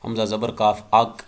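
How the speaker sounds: اک with the final k released in a bounce, echoing back; bouncing qalqala. Shown as a demonstration. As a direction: let the k of اک rebound clearly. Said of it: "آواز جو ہے وہ ایسے محسوس ہوگی کہ دو-، ریپیٹ ہو رہی ہے".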